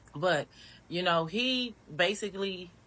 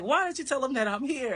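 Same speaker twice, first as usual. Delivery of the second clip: mimicking him; 10 semitones higher, 4 dB louder than usual. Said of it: "And so he starts saying".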